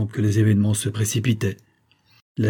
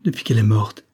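rising, higher cry of shocked wonder; strange cry; 5 semitones higher than usual. A narrator's reading. James cries out to the doctor over the dead wife, strange and rising. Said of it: "Il cria d'une voix étrange".

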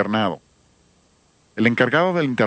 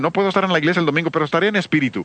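quick, higher mocking voice of an excuse-maker; 5 semitones higher, faster than usual. Preacher mocks churchgoers who skip Sunday, quick higher voice. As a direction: rattle off the lame excuse in a higher voice. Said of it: "Algunos dicen".

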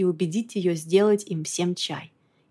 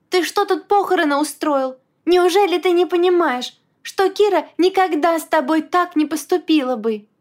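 raging; 9 semitones higher, 5 dB louder than usual. A narrator's reading. Shaking him, raging.

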